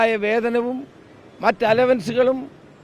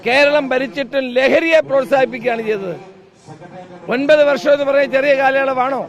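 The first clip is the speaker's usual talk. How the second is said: rally speech. Real, not acted. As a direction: rouse the crowd, stressing every charge. Fiery political protest speech.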